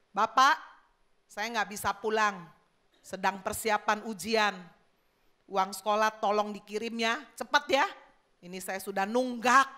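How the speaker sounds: coarse, demanding letter reading; rough builder reading a letter aloud; rough, high tone. Acted. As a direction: read it out brusquely, like a rude demand. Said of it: "yang kasar, yang tinggi".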